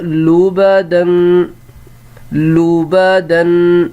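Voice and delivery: لبدن stretched out, lu-ba-dun; slow model reading. Shown as a demonstration. Teacher to pupils, drawn-out model word. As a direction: sound out لبدن slowly. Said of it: "same چیز ہوگی".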